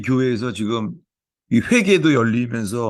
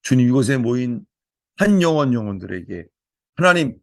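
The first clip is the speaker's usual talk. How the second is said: opening prayer; 3 semitones higher than usual. Real, not acted. Pastor praying over the church, fervent prayer. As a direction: pray it out over the congregation.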